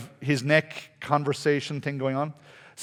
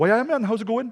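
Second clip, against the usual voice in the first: put-on full Newcastle Geordie accent, pitched up; 7 semitones higher than usual. Retelling how a man in Norway answered in English, with a proper Newcastle accent. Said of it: "he had a proper Newcastle accent".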